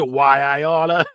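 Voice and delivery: slow mock cartoon tough guy; hammed-up movie gangster threat, slow; old movie character. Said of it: "This is a movie. He's a character".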